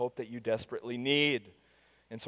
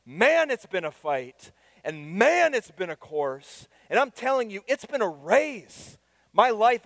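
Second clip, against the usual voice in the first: preaching at full force; 9 semitones higher, 7 dB louder than usual. Acted. Pastor voices Paul urging Timothy, preaching at full force. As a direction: preach it as Paul's battle cry.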